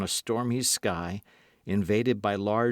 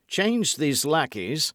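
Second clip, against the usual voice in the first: slow, firm, raised command; commanding order; 6 semitones higher, 4 dB louder, slower than usual. A narrator's reading. Lord de Winter orders the lackeys changed, firm raised command. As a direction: order the guards swapped.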